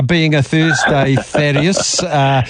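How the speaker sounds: measured racing presenter delivery, slightly put on; lightly hammed-up racecourse presenter voice; trackside presenter. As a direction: do your best trackside presenter, drawing out the race meetings. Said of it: "in my best trackside presenter voice".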